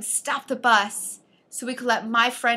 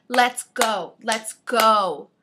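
louder, firm, no-nonsense; firm insistent tone; 5 dB louder, much slower than usual. Retold or imitated. To the driver, pushing him to leave, firm and insistent. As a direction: tell him flatly it's time to go. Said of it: "And I said it in this tone".

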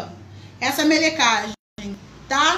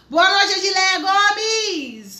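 sing-song greeting; 5 semitones higher, 3 dB louder, much slower than usual. Real, not acted. Greeting a viewer in chat.

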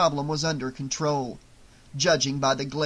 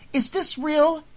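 sharp, much higher and louder challenge; demanding; 12 semitones higher, 5 dB louder than usual. Acted. Nancy confronting her mother with the hat, loud demand. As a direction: throw the question at her like an accusation. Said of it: "Nancy demanded".

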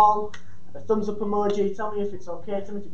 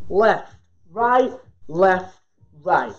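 counted demo rhythm; much slower than usual. Shown as a demonstration. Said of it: "we're in our boxing stance just here".

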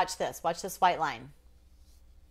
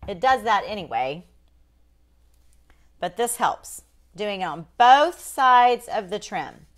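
ordinary delivery

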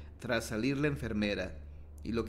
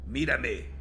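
ghostly voice from beyond. A narrator's reading. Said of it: "Se oye una horrenda voz de ultratumba".

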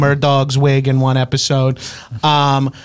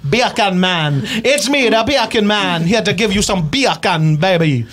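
beer can man character; 4 semitones higher, slower than usual. Acted.

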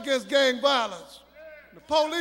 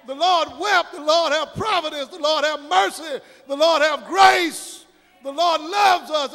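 rhythmic list, each line punched on its last word; preaching litany; 3 dB louder than usual. Real, not acted. Preacher listing the Lord's gifts to the congregation, rhythmic preaching. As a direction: build a chanted-feeling litany of praise.

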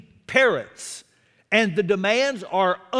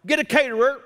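Jesus commanding; 4 semitones higher than usual. Retold or imitated. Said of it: "Jesus was being very specific".

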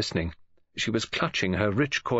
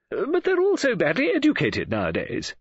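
high-pitched, exasperated argument; opinionated woman friend; 14 semitones higher, 3 dB louder than usual. Acted. Woman friend blames young people's schooling, exasperated. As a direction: protest in a lifted voice.

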